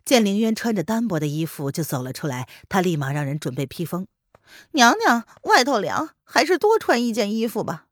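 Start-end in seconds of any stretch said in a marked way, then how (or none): 4.7-7.9 high, eager servant voice; a higher-pitched attentive servant. Acted.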